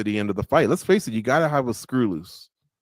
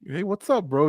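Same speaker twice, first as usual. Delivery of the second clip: imitating fighter greeting dog; 6 semitones higher than usual. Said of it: "He humanized the dog".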